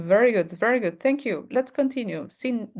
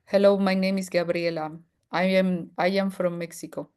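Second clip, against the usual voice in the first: English with a Spanish accent; Spanish-accented English self-introduction. Shown as a demonstration. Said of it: "like, a Spanish accent".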